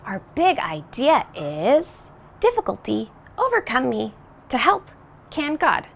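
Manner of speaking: words jumbled in reverse order, puzzled; backwards speech. Pretend. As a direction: say the big idea backwards, confused. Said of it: "I'm saying it backwards".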